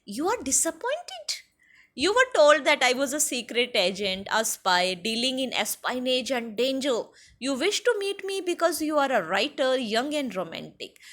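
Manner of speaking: teacher acts out the spy's reply; voicing the fat spy. Spy Ozible teasing the disappointed writer, lightly acted. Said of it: "And he said".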